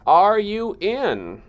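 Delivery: high, loud slow call. Acted. Wolf calling to the pig at the stick house. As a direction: call politely through the door. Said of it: "I called".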